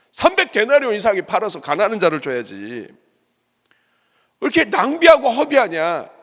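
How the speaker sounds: high, loud indignant complaint, drawn out at the end; angry rebuke. Acted. Preacher voicing critics scolding the woman's waste, loud angry rebuke.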